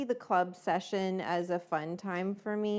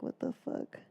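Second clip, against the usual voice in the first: whispered what the fuck; 5 dB quieter than usual. Retold or imitated. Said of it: "I turned to the side and I'm like".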